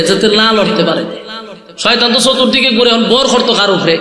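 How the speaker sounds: ordinary talk, nothing marked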